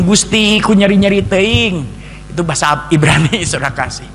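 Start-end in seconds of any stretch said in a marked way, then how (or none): 0.0-1.9 loud, raw cry of pain; loud anguished cry. Retold or imitated. Rolling in the field, crying loud to God. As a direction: wail it out to God.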